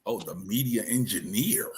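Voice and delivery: slow, low, drawn-out teasing; playfully grand, hushed echo; mock impressed. Real, not acted. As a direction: stretch it out as if awed by a title. Teasing a guest's grand title.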